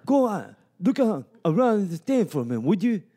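rousing locker room coach; coach pep talk. Acted. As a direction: fire up the team like a coach. Plays coach giving pep talk.

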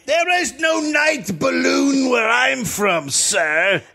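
high, slow hammy witness; old-timey witness. Pretend. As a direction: play the balloon man, drawn out. Balloon guy character voice.

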